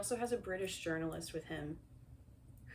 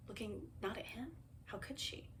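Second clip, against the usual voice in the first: hushed aside; 3 semitones higher, 8 dB quieter than usual. Real, not acted. Playful hushed aside about Kate.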